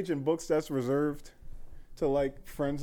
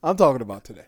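laughing through the repeated line; laughing insistence; 4 semitones lower, faster than usual. Real, not acted. Friend pushing about breaking fast, laughing. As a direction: giggle while pressing the point. Teasing friend over iftar plans.

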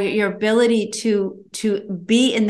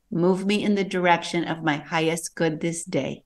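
softly spoken prayer; 2 semitones lower, 4 dB quieter than usual. Acted. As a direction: pray it gently to yourself. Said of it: "I have a prayer that I give".

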